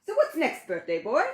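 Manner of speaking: high, bouncy Ted voice; chirpy imaginary friend teasing; Ted's voice. Acted. Ted voiced in read-aloud story.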